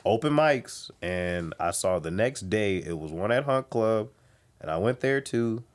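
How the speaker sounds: ordinary delivery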